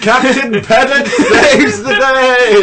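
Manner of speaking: slow, booming trailer proclamation, laughing; superhero announcer. Pretend. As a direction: announce it like a comic-book hero. Mock heroic announcement of pedantry.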